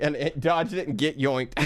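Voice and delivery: real laugh breaking through the words; chuckling as the joke sinks in. Real, not acted. Streamer repeating the joke to chat, laughing.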